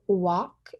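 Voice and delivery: "walk" said with W for R; gliding walk. Shown as a demonstration. Student demoing gliding, "walk" with W. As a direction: round "walk" into a W start. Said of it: "saying walk instead of rock".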